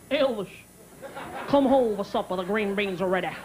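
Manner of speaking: lightly voiced Southern mother impression; a famous singer's mother. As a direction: call a child in for supper, lip curled. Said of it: "Elvis Presley's mother could do this".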